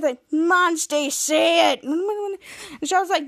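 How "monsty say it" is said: Monsty. Retold or imitated. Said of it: "Monsty seems to anvil and says".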